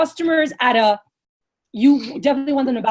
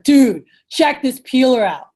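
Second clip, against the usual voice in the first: slow, emphatic hype; excited pitch; 4 dB louder, slower than usual. Shown as a demonstration. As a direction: demo real enthusiasm, drawing the words out. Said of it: "what is your excitement when you're cutting stuff up".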